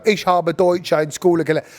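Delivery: German said in a flat English accent, "Ich habe Deutsch in Schule gelernt" with no German sounds; half-hearted English-accented German. Shown as a demonstration. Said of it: "You can't go".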